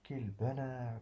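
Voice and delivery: savoured, gentle delight; joyful exclamation. Shown as a demonstration. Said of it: "on exprime un sentiment".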